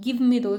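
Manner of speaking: "give" lightly stressed, falling through "me those"; mild teaching emphasis on "give". Shown as a demonstration. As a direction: lean a little on "give" in "give me those". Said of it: "इसमें आपको give में दिखेगा".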